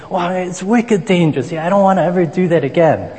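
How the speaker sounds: half-hearted go at a Boston local; badly faked Boston accent. Preacher retelling his neighbor's icicle scare, half-hearted Boston accent. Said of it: "I can't even fake a Boston accent".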